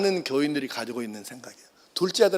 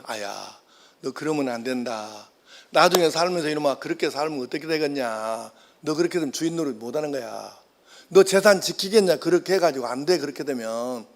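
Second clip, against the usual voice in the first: low, softer fatherly scolding; a hint of a weary old father nagging his son; 3 semitones lower, 4 dB quieter than usual. Father scolding his careless second son, low and soft. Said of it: "얘 잔소리 하는 거예요".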